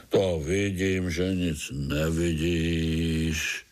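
low, slow sarcastic worm; dry scorn from a grumpy worm; grumpy earthworm. Acted.

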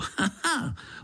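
high mocking snort of a laugh; scoffing laugh. A narrator's reading. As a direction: scoff at the idea. Angry gnat scoffing.

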